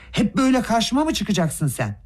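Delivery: high-pitched enraged outburst; high angry shout; furious yell. A narrator's reading. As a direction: hurl it at him in a rage. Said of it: "çılgın bir öfke içinde kudurmuş gibi bağırarak".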